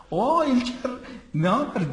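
loud, high shouted greeting; Murat Usta bağırışı. Retold or imitated. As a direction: holler hello, imitating a friend across the street. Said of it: "bağırarak". (yüksek sesle, bağırarak hal hatır sorma)

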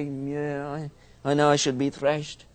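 lip quavering. Retold or imitated. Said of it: "my lip would quaver".

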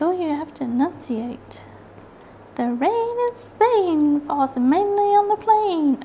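high, slow, exaggerated posh English enunciation; posh English accent. She mocks careful English enunciation in a high, slow posh English accent. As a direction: overdo a proper English accent. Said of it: "It's like".

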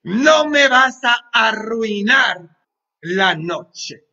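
no me vas a arruinar, fuerte y lento; desafío al demonio. Acted. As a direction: encara al demonio con fuerza, despacio. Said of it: "Mírenle su jeta y dile". (desafiante y lento ante el demonio)

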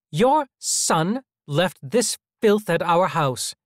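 affronted mother, each word slow with scorn; disdainful matron. A narrator's reading. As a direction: drag out the disgust like a prim matron. Mrs. Knight's accusing line.

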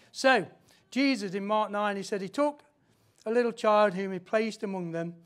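loud, emphatic Bible reading; scripture reading. Acted. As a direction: proclaim the passage, settling on the last words. Reads scripture to congregation.

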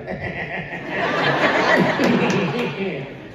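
put-on high cackling kid laugh; mischievous child laugh. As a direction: laugh like a defiant toddler. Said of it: "And he'd be like".

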